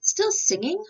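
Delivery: loud, high, sharp snap; snapping. A narrator's reading. Mayor catches the rooster still singing, loud indignant snap. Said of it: "snapped Don Pepe".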